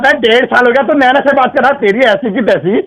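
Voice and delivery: heated demand, ending on a called-out name; angry yelling. Real, not acted. Husband demanding to speak to his wife, yelling angrily. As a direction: argue angrily and call out for her. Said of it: "चिल्ला क्यों रहे हैं आप".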